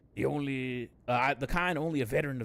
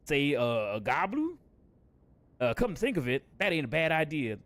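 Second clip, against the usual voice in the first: gruff pirate-ish NPC; 4 semitones higher than usual. Acted. Voices NPC dialogue in accent.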